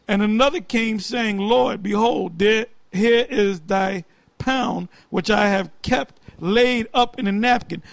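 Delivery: slow, measured Bible reading; scripture reading. Acted. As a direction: read the verse out slowly, with pauses. Reads scripture verse aloud.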